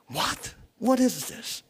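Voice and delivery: high-pitched indignant outburst; ticked off. Acted. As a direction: act out angry disbelief. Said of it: "I would have been really ticked off, angry".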